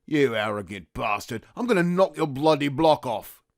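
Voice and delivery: Cockney threat, building from held-in anger; angry and vengeful. Acted. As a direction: threaten him as if about to lunge. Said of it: "Angry and vengeful".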